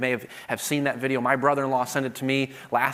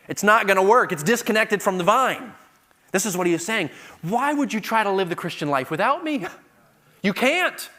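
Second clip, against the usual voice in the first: higher, louder impassioned sermon; fiery preaching; 6 semitones higher, 5 dB louder than usual. Acted. Preacher exhorting the congregation, loud and high. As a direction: drive the point home to the congregation.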